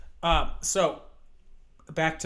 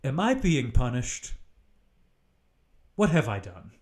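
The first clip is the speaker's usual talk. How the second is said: mock despair to sky. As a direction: cry out to the sky, hammed-up. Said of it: "I just go".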